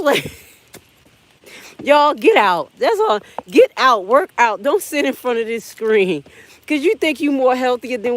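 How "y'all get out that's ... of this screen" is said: excited high call to action; loud urging. Real, not acted. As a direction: push them to get moving. Urging viewers loudly.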